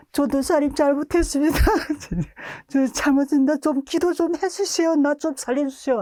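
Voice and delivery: high, pleading voice, slowed on the plea; begging boy. Retold or imitated. Boy in pain pleading with the preacher, high and desperate. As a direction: beg for your life, hammed up.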